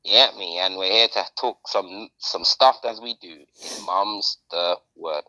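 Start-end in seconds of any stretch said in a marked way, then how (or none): 3.9-5.2 low, very slow drawn-out catchphrase; mock-dramatic catchphrase. Slow deep catchphrase intro.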